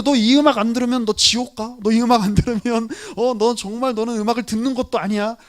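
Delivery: mock bully forcing music on a friend; mock threatening. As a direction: push the music on them like a threat. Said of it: "이렇게 이야기할 필요가 있을까요?".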